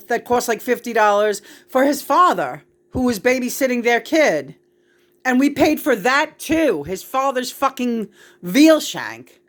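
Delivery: venting hot about the bill; getting mad. Real, not acted. Telling John about the bill, getting mad and loud. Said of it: "See, John, I'm getting mad".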